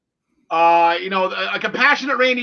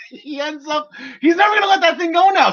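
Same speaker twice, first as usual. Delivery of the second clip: laughing; 5 semitones higher than usual. Real, not acted. Laughing at Lashley's loss.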